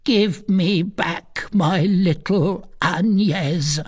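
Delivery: slow, high plea; anguished Gudule. A narrator's reading. Gudule demands her little Agnès, anguished. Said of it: "pursued Gudule".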